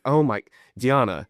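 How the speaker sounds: mildly fed-up correcting; exasperated. Retold or imitated. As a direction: protest to your wife, pitch lifted. Retold exasperated reply to wife.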